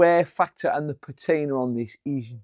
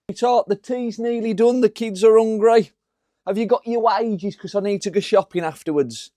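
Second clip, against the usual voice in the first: wife's voice; 5 semitones higher than usual. Acted. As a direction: play the expectant wife, pitched up. Wife voiced in imagined scene.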